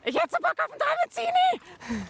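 high, eager exclaim; excited craving. Real, not acted. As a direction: call it out with real craving. Craving breakfast sandwich.

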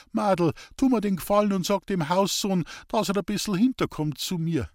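a hint of an anxious country man asking; sick man requesting. A narrator's reading. Sick man asks maid a favour, gently pleading.

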